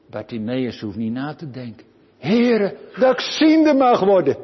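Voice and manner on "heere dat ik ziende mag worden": high, loud begging to the Lord; a blind beggar calling out high and loud to be healed; pleading cry. Acted. Bartimaeus begs to see.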